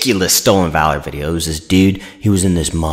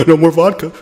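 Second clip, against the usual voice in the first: said through laughter; laughing; 11 semitones higher, 5 dB louder than usual. Pretend. Joke punchline while laughing.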